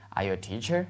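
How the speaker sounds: "teacher" lifted at the end; rising question intonation. Shown as a demonstration. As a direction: let "teacher" climb as a question. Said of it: "注意把语调拉上去".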